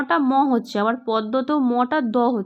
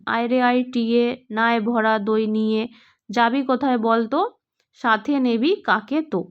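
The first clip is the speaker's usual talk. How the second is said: rhyme recitation; 2 semitones lower than usual. Acted. Teacher recites a children's rhyme.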